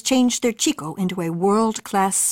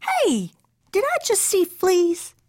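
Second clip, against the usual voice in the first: surprised question; 11 semitones higher, slower than usual. A narrator's reading. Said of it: "asked Mama".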